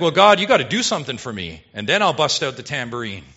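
quick, loud mock demand, easing off at the end; mock bargaining worshipper. Preacher mimicking a worshipper bargaining with God, mock demanding. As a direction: imitate a pushy deal-maker rattling off terms. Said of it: "You're like".

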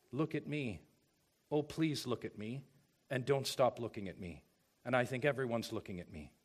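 mocking the social-media self-focus, begging softly for attention; needy self-focused plea. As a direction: imitate a vain voice begging to be noticed. Mimicking self-centred social media voice.

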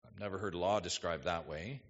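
mock puzzled objection, mild; skeptical listener. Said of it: "you say".

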